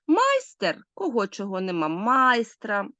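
"майстер" and "майстра" both stressed on МАЙ; fixed stress. Shown as a demonstration. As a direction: hit МАЙ in "майстер", then again in "майстра". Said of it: "наголос залишається на тому самому місці".

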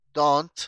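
"don't" fuerte, con la T final bien marcada; enseña a decir "don't" rematando la T; T final pronunciada. Shown as a demonstration. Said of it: "estoy pronunciando la T al final". ("don't" con T final nítida y enfática)

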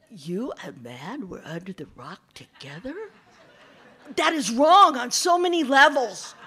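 mock disgust at the idea; amused fox. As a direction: fox teasing the snake. Fox mocks mix-up.

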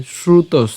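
"শ্রুতস" closed on a dental s; pronunciation demo. Shown as a demonstration. Teacher showing where the word part stops, "শ্রুতস" ending on s. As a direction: stop "শ্রুতস" on the s, no vowel. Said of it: "দন্ত স".

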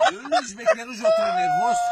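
squeaky high comic voice; high squeal. Acted. Narrator squeals the wolf's rage in a high voice. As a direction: shoot the voice way up for the angry wolf.

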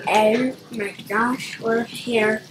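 lightly put-on drawling y'all accent. Player alone gushing at the game, put-on accent. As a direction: stretch the vowels in a playful mock accent, rising at the ends. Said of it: "I don't know why I'm talking in this accent".

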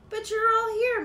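high, loud, happy realisation; smiling. A narrator's reading. Mouse telling Rabbit, Frog and Turtle, smiling. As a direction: say it brightly with a big smile. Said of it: "Mouse smiled".

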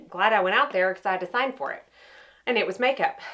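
slightly out of breath after the door; winded, catching breath between phrases. Real, not acted. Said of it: "And now I'm out of breath".

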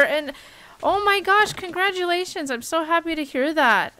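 high, loud gushing joy; gushing excited congratulations to a friend. Real, not acted. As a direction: squeal with happiness for a friend. Reacting to friend coming out.

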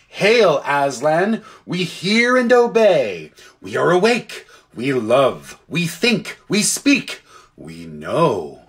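solemn hail, pitch jumping high and low; vary each short declaration, high to low; chorus of different creatures. Acted. Creatures answering their lion creator, solemn declarations in varied voices. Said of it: "in their different voices, low or high or thick or clear".

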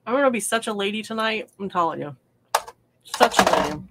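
talking through a mouthful of jerky; mouth full. Real, not acted. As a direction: chew and talk at once. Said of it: "I'm gonna talk with my mouth full".

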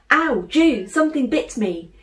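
put-on sharp high yelp of a stung boy; yelping in pain. A narrator's reading. Little brother yelping to his sister after a sting, high and loud. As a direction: cry out, startled and hurt. Bear yelps after being bitten.

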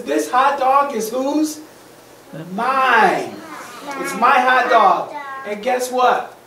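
lightly voiced pigeon staking a claim; possessive pigeon. Pigeon claims his hot dog from the duck, possessive.

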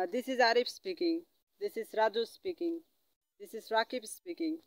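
slow, spelled-out English phrase; slow teaching demo. Shown as a demonstration. Teacher modelling a phone answer for students, slowly. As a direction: say each word slowly for the learner. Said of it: "এইভাবে বলবেন just".

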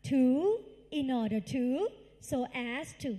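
rhythmic drill, phrase by phrase; loud group recitation. Shown as a demonstration. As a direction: chant it out for the class to repeat. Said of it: "ใครที่ออกเสียงดังๆ".

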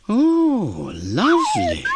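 high, delighted voice; delighted Sadie. Acted. Sadie accepts a piece of apple, high and delighted. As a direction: gush over the treat. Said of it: "said Sadie".

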